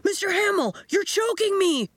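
strangled cry for help; choking boy. A narrator's reading. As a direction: gasp it out as a chimp grips your neck. Boy choked by chimp.

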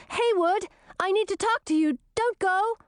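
high-pitched, pleading princess; high, pressing appeal; urgent plea. A narrator's reading. Princess pleads with departing friend.

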